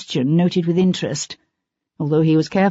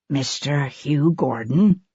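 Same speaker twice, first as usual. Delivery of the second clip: put-on humble, awkward young man; 4 semitones lower, 3 dB quieter, slower than usual. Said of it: "humbly even".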